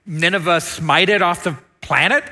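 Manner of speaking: mock-bewildered curiosity; wondering aloud. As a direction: play a baffled listener demanding answers. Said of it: "You might be wondering".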